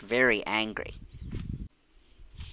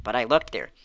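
louder, a sudden slip; blurted out; 5 dB louder than usual. Acted. Missus Percy giving herself away, blurting it out louder. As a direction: let it escape before thinking. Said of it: "Missus Percy blurted out".

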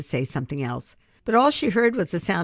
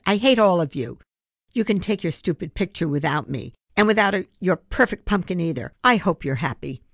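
tearful anger; 3 semitones higher, 4 dB louder than usual. Acted. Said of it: "She burst into tears".

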